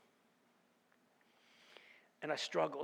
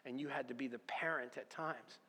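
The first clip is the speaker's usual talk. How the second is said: soft, hushed fatherly correction; God gently showing him the truth; gentle voice of God; 7 dB quieter than usual. Retold or imitated. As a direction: explain it quietly like a patient father. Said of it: "He goes".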